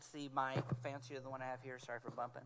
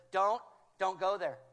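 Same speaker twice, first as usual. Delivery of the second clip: louder, firm call to stop; urgent loud warning; 5 dB louder than usual. Retold or imitated. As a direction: stop someone in their tracks. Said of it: "the Holy Spirit says".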